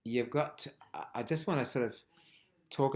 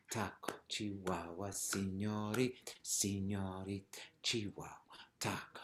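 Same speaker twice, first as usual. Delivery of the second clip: soft, metronomic chant with "taco" unaccented; steady, quiet count, no peak on "taco"; democratic, equal stress; 6 dB quieter than usual. Shown as a demonstration. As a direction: keep "señorita", "Chihuahua" and "taco" equally weighted. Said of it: "everything's kind of got the same value".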